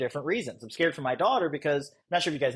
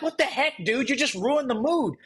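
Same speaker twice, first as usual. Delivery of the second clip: higher, incredulous "what the heck"; exasperated girl; 7 semitones higher than usual. Retold or imitated. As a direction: scoff at the awkward guy in disbelief. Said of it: "You're like".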